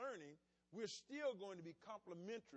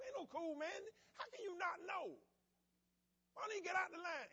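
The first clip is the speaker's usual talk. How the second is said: higher and louder, fed-up complaint; irritated rant; 10 semitones higher, 5 dB louder than usual. Retold or imitated. Driver snapping back at his calm partner.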